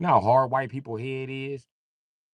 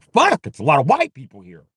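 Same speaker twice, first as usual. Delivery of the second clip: mock white guy; 4 semitones higher, 9 dB louder than usual. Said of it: "showing up like".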